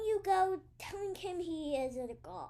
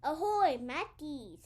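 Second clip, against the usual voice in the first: pirate voice; 7 dB louder than usual. Pretend. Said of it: "Talk like a pirate".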